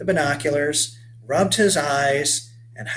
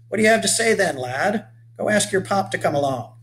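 rugged 1830s settler hailing a stranger; weathered old boatman; 4 semitones higher than usual. Acted. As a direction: call out to the boy like a sun-burned old sailor. Urges help with the salvage.

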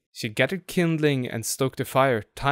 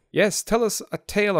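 eager cry; 8 semitones higher than usual. A narrator's reading. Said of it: "they all cried together".

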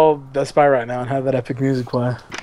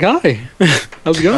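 put-on white boy voice. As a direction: act extra polite. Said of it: "I do my white boy voice".

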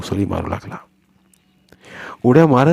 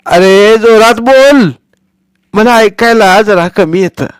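put-on slow, much higher and louder old woman's voice; deaf grandmother; 12 semitones higher, 9 dB louder, slower than usual. Hard-of-hearing grandmother telling Sonya to speak up, loud. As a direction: shout back at the mumbling boy.

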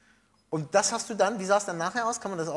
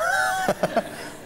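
high burst of laughter. Real, not acted. Host laughs loudly.

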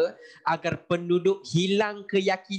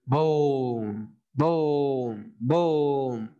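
long drawn-out booms; slow sound-effect "bom", each one trailing away; imitated bomb blasts; much slower than usual. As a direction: boom it out like falling bombs. Imitates bombs on drawn board.

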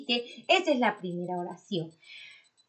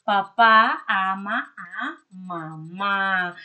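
"Papá ama a mamá" read slowly and steadily, words drawn out a little; slow reading aloud; 5 dB louder, much slower than usual. Shown as a demonstration. Teacher rereading the sentence for the pupils, slow and even. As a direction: reread it calmly for the class. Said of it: "vamos a ver qué oración salió".

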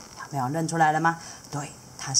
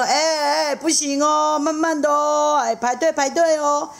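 pretend stern; 10 semitones higher, 4 dB louder than usual. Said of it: "假装凶凶的说".

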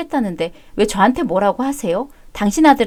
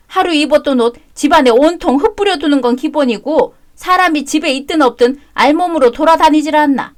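a higher, complaining rant; exasperated mother-in-law; 4 semitones higher, 3 dB louder than usual. Acted. Mother-in-law complaining about her messy son, exasperated higher rant.

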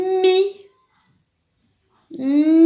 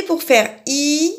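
slow and smiling; 2 semitones higher, much slower than usual. Shown as a demonstration. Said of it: "Vous vous souvenez".

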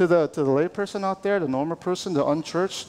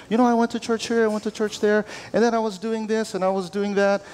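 higher, singsong list that wanders all over; scattered rambling; 5 semitones higher than usual. Acted. Pastor mimicking testimony that's all over the place, scattered rambling. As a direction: imitate a rambling storyteller, higher-pitched. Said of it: "You're all over the place".

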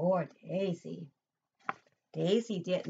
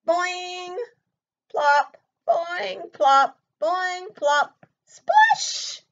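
bouncy sound effects; 11 semitones higher, 11 dB louder, much slower than usual. A narrator's reading. Frog jumping sound effects.

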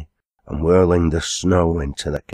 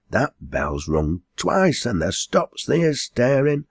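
dialect landlady giving orders, often higher; a hint of a scolding country landlady; lightly voiced landlady, bossy; 4 semitones higher than usual. Landlady ordering the servant girl about, mildly scolding.

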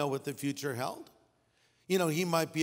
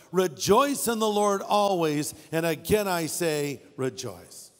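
congregation-style recitation; 3 dB louder than usual. Shown as a demonstration. Pastor leading the congregation in the verse. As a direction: recite it together with the church. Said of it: "Let's say that together".

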